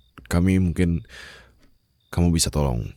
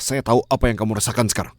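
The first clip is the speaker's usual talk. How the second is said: higher, louder, hurried plea; pleading insistence; 7 semitones higher, 3 dB louder than usual. Acted. Captor pleads with grieving captive, rising and urgent. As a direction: push the comfort harder and higher.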